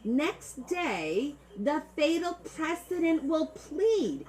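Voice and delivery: put-on high, drawn-out Italian-American macaroni accent; hammed-up Italian-American recital. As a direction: declaim it slowly in a mock macaroni accent. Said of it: "I'm gonna do it like the macaronis".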